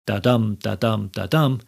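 DA-DUM in even beats, weight on dum; heartbeat rhythm. Shown as a demonstration. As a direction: say da-dum like a steady heartbeat, weak then strong. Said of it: "because that rhythm".

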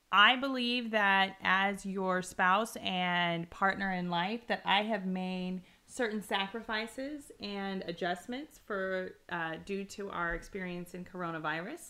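slow, measured formal address; formal speech. Acted. Wife presenting her case to her spouse, formal. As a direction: state your case deliberately, word by word.

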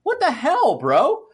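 high laughing what the hell; baffled viewer laughing at the show; laughing disbelief. Retold or imitated. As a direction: laugh through the exasperation. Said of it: "It's like".

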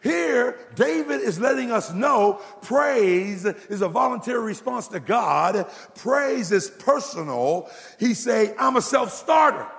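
high, ringing pulpit proclamation; full-force preaching. Real, not acted. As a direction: preach it out, landing hard on the last phrase.

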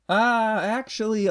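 high-pitched, mock second thoughts; sudden change of mind. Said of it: "and she's like".

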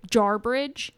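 JARBRIDGE said like jar plus bridge; common mispronunciation. Shown as a demonstration. Podcaster showing what most people call the town, common mispronunciation. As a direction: say "jarbridge" as two English words, jar-bridge. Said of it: "but most people say".

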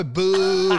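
long mock jeer; slow pantomime boo; drawn-out boo. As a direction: boo like a heckler, dragged out. Acts out booing someone.

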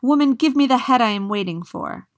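loud, high-pitched demand from the empty post; the empty post crying out to the old woman, loud. Acted. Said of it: "cried out".

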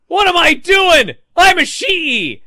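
loud, high shouted realization; hammed-up defiant yell, slow and high; Ishii. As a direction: imitate a wrestler snapping back into himself, drawn out. Voices Ishii snapping back.

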